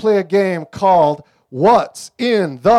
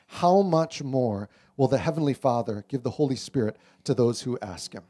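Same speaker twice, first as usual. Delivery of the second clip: scripture reading; 3 dB quieter than usual. Acted. Pastor reading Luke to the congregation, solemn and soft. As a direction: read the verses gently to the congregation.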